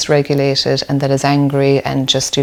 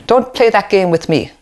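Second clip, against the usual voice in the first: scolding parent; 5 semitones higher than usual. Retold or imitated.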